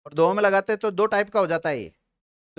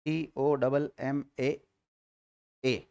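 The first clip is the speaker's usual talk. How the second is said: slow spelling; 6 semitones lower, 5 dB quieter, much slower than usual. Shown as a demonstration. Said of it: "English में लिख लो comma".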